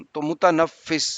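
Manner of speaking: متنفس said slowly, syllable by syllable; careful pronunciation. Shown as a demonstration. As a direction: spell out متنفس slowly with a short u, doubled f. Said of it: "میم پہ پیش".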